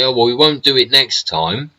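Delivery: mocking the politician's excuse; mocking quote. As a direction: parrot her lame excuse. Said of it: "she tried to say".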